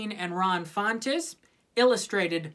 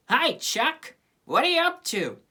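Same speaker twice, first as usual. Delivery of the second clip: cheery greeting; 8 semitones higher, 3 dB louder than usual. Acted. Peppermint Patty greets Charlie Brown.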